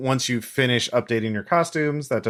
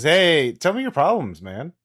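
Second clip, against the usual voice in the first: lightly voiced pothead, starting higher and dropping off; stoned young man; 4 semitones higher than usual. High young man strolls in offering help, stoned. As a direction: greet them as a mellow stoner, lightly acted. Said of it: "he's obviously high".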